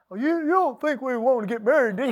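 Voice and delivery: mock-feeble hedging question; imitating his own wimpy, hesitant asking; weak, timid proposal. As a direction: stammer it out like a sheepish suitor. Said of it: "you know, weak".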